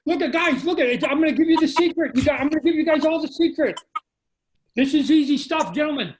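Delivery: loud, high mock sermon; hammed-up pitch to the guys; loud playful lecture to his friends. Real, not acted.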